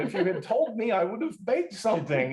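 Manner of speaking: a hint of a chatty hostess greeting a guest; mock cheery host. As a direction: play it as a chirpy surprised host. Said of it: "It's not that kind of a deal".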